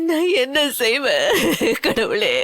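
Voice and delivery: slow, sinking cry to God; despairing plea. Acted. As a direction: let the voice sink in despair. Despairing mother cries to God.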